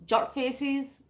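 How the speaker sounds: "jerk" with the friend's rounded er vowel; "jerk" in an imitated non-Scottish accent; Mel's pronunciation. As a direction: say "jerk" as your friend does, not in your Scottish way. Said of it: "so like Mel says".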